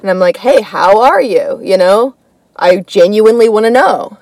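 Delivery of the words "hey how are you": friendly Southern greeting. Retold or imitated. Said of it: "become kind of a Southerner".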